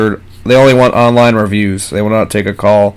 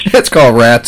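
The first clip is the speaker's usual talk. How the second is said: laughing; 3 semitones higher, 4 dB louder than usual. Real, not acted. Laughing at own joke.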